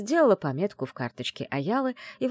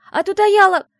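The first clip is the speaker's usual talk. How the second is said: sudden outburst; 13 dB louder than usual. Acted. Blurting out before mouth covered.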